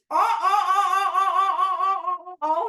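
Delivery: loud excited monkey hooting; monkey calls. Pretend. Teacher hooting like monkeys for the kids, excited. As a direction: call out like a monkey.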